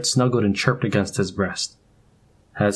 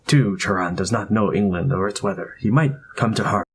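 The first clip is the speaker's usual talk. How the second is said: put-on Indian accent. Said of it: "The familiar cadences of his accent".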